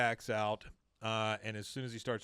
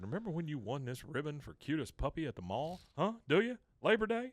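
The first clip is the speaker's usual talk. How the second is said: imitated eager coaxing; 5 semitones higher than usual. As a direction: pitch jumping up on the questions. Owner coaxes dog with old memories.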